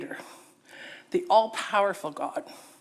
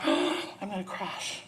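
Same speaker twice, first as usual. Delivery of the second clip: frightened thought; 3 semitones lower, 6 dB quieter than usual. Acted. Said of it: "and she thought".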